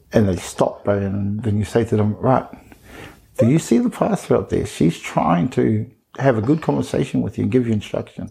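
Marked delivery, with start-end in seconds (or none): 2.2-8.3 teacher voice. Retold or imitated. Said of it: "you put on that sort of teacher voice".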